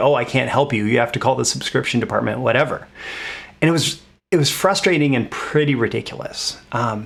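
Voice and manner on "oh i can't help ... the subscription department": usual speaking voice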